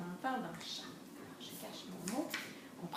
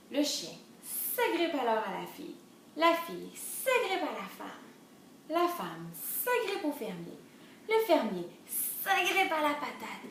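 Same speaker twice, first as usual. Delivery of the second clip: measured, sing-song storybook reading; lilting story narration; children's storytelling; 4 semitones higher than usual. A narrator's reading. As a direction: read the chain to little ones.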